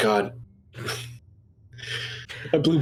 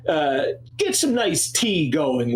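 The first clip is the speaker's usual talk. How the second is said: slow haughty Necromundan noble; slower than usual. Acted. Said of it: "I hate Necromundan accent".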